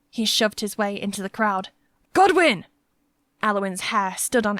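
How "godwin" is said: high, loud shout of the name; a boy yelling for his lost brother; screaming a name. A narrator's reading. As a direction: call out into a crowd. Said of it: "Alfric's screaming".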